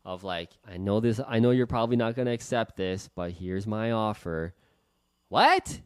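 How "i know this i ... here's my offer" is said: apologetic Canadian way. Retold or imitated. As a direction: hedge the offer as if sorry to make it. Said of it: "fall into your programming in the Canadian way".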